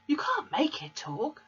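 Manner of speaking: put-on high, proud little boy's voice; small boy. A narrator's reading. Fred showing Matilda his parrot, high proud boy voice. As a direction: show it off like a six-year-old. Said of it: "said Fred".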